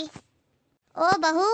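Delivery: a long, drawn-out shout to the daughter-in-law; "बहू" stretched in a slow call. Acted. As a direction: yell for the bahu from the hall. Mother-in-law summons daughter-in-law.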